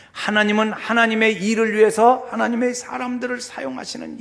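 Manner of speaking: insistent high-pitched preaching; emphatic preaching. Acted. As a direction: press the point home from the pulpit. Preaching with raised voice.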